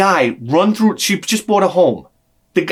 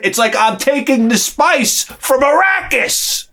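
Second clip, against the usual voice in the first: mock mystic; 9 semitones higher, slower than usual. Mystic spice comparison.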